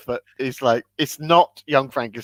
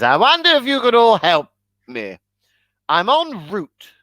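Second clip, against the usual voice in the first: posh Renfield; 5 semitones higher than usual. Retold or imitated. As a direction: ask politely like a prim Englishman. Renfield quote in carriage.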